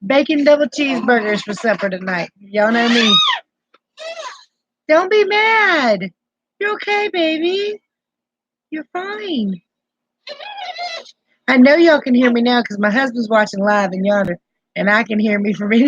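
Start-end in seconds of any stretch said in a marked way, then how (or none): 4.9-9.6 much higher, slow and soothing. Real, not acted. Grandma soothing the upset grandbaby, higher gentle baby talk.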